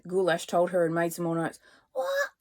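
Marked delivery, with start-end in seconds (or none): 1.9-2.3 very high broken shriek; attempted shriek. A narrator's reading. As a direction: try to shriek but it cracks. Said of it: "She tried to shriek".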